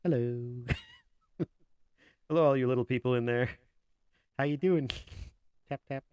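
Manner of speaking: booming giant voice through a voice changer. Pretend. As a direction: greet them like a huge loud giant. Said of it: "Oh, I'm huge".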